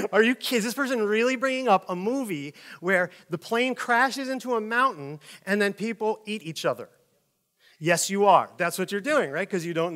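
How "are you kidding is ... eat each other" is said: mock horrified passenger. Seatmate horrified by the talk of the movie, mock incredulous. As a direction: play the appalled seatmate, pitched up. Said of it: "The person's like".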